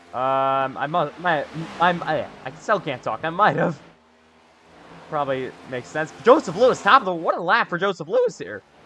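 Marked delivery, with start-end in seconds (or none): 7.1-8.6 voice breaking, cracking mid-line. Speaker calling a driver's lap, voice cracking. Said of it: "My another voice crack".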